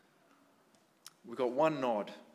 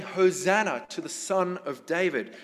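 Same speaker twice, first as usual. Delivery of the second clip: shouting; 3 semitones higher, 5 dB louder than usual. Retold or imitated. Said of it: "and they're shouting".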